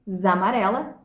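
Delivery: "zamarela" said as one joined word; elided, casa's last vowel merged into amarela; run-together vowels. Shown as a demonstration. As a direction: glide "za" straight into "marela", no gap. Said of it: "seja pronunciado junto".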